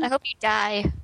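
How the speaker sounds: cheerful. Acted.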